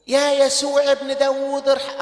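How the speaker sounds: crying out. Acted. Blind man crying out.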